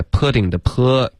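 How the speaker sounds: short relaxed vowel in "pudding的p", not oo; clear open P vowel. Shown as a demonstration. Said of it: "别发". (“pudding的p”元音放松，别发成扑)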